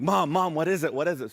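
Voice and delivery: high, hurried worry; mock anxious urgency. Stressed child arriving at mom's house, urgently worried. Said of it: "I got, like, really stressed out".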